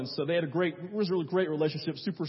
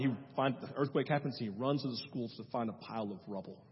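hushed; 5 semitones lower, 7 dB quieter than usual. Acted. Hushed telling of disaster.

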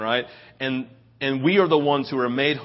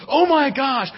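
high-pitched, gushing imitation of a wife; mock-excited squeal of delight; great excitement; 9 semitones higher than usual. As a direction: gush over it in a raised voice. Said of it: "with great excitement".

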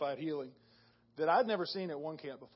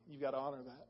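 softer, pleading under the breath; hushed plea; 2 semitones lower, 8 dB quieter, faster than usual. Retold or imitated. Retelling his prayer for his knee, hushed and pleading. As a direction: murmur it to God like a private prayer. Praying aloud to God, retold.

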